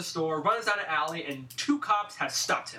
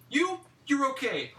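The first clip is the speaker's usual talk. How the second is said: mild imitation; 7 semitones higher than usual. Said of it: "Roddy Piper looks to the left".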